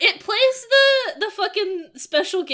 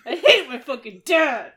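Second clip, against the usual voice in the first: put-on dopey complaint; lightly voiced dumb guy; 2 semitones higher, 3 dB louder than usual. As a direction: play along as a dim, sulky son. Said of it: "like, a dumb voice".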